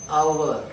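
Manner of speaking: slow, drawn-out "our" with no H; silent H in OUR. Shown as a demonstration. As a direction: stretch "our", starting on the "ow" vowel. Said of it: "it is our".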